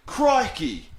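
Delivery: high-pitched mock shock; acted surprise. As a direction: exclaim it as if startled. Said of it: "if someone surprises you or shocks you".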